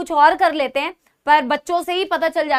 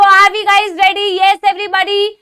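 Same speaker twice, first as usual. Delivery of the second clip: slow, louder rallying call to the class; 3 semitones higher, 6 dB louder, much slower than usual. Real, not acted. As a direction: draw it out and wake the class up. Teacher rallying class to start. (कक्षा को जोश से, धीरे खींचकर पुकारना)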